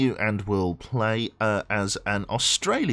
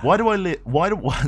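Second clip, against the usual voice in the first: laughing; 10 semitones higher, 7 dB louder than usual. Real, not acted. Misreads chat, laughs.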